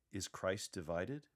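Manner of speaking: slow, with a touch of pain; a tremble of hurt in the question. Shown as a demonstration. Paul grieving over a divided church, in a pained voice. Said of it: "Demonstrate an emotion of pain".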